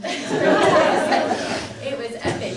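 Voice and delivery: laughs through the words; breathy laugh while saying it; giggling at the memory. Real, not acted. Laughing recalling first Happy Meal.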